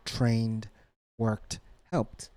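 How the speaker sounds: "trained, worked, helped" each in one syllable; final sound only. Shown as a demonstration. Teacher contrasting the rule, final sound only on "trained, worked, helped". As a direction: end "trained, worked, helped" on the consonant, no ed beat. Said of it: "as just the final sound".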